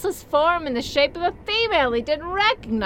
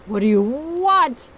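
angry yell; slower than usual. Acted. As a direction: yell it at the ghost. Bob yelling at ghost.

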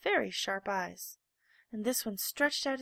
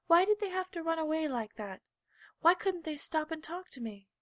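forlorn wondering; 8 semitones higher, 3 dB louder than usual. A narrator's reading. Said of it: "he thought".

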